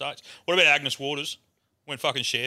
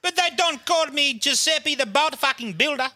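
high-pitched hammed-up wail; mock-sob the complaint in a very high voice; comically wailing, aggrieved; crying; slower than usual. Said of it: "Giuseppe's fucking crying".

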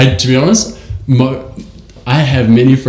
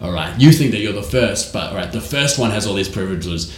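Judi Dench impression; 5 semitones lower, 7 dB quieter than usual. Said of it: "Judi Dench goes".

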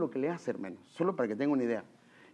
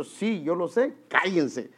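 louder, fed-up retort; angry; 4 semitones higher, 5 dB louder, slower than usual. Retold or imitated. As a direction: snap at them the third time. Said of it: "ya estaba bien bravo".

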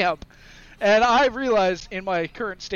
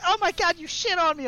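mock outraged wife; 10 semitones higher than usual. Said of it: "She's like".

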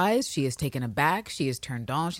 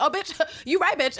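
laughing; 10 semitones higher than usual. Retold or imitated. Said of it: "She's like".

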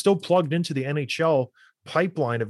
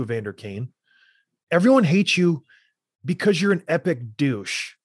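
heated rant. Real, not acted. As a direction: vent your real anger at him. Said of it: "I'm gonna get a little emotional".

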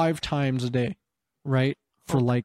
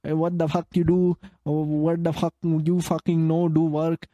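mild mock rant in broken English; drunk caller, broken English. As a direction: lightly mimic an angry drunk client with poor English. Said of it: "With, like, shit English".

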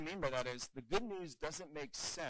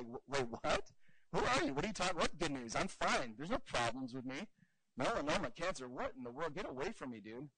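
mock baffled stranger. Disneyland guest pushing off a stranger, mock baffled. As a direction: act the stranger thrown by a weird offer. Stranger confused by odd good news.

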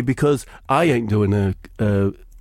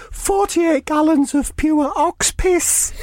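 higher voice, slow and deliberate; slow cheeky Harry; slower than usual. Acted. Harry telling the group his gift, slow and higher. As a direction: deliver it slowly, straight-faced.

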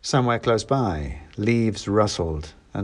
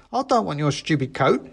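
sulky; 7 semitones higher than usual. A narrator's reading. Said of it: "He glared at me, offended".

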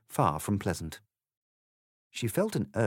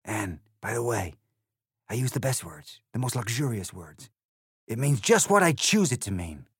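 a touch of lofty scorn; scornful, lightly voiced; 3 semitones higher than usual. The egg brags scornfully to Alice, understated. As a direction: brag with mild disdain. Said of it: "in rather a scornful tone".

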